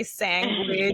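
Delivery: sandwich in a Bronx Latina accent. Shown as a demonstration. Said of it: "Latina from the Bronx".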